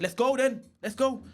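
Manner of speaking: high, loud goading shout; come-on-then yell, re-enacted; shouted challenge. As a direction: act out squaring up for a fight. Acted challenge to fight.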